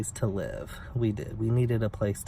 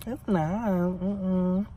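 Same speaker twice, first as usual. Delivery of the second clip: higher, drawn-out "mm-mm" shake of the head; sassy dismissal; 8 semitones higher, much slower than usual. Real, not acted. Still ranting about the neighbor, sassy high dismissal. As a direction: shut it down with attitude.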